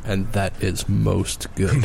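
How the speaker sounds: mock pompous. Jokey slow pronouncement.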